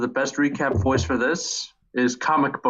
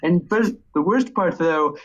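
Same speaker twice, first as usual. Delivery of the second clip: lightly voiced nerdy comic shop owner; a hint of a smug, nasal know-it-all; Comic Book Guy. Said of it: "get Comic Book Guy's voice down".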